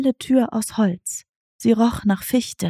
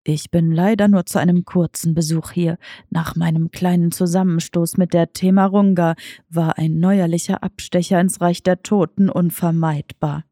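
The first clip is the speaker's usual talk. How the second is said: understated lower cat voice; tomcat Diego asking; 4 semitones lower than usual. Acted. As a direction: ask like a sly old tomcat.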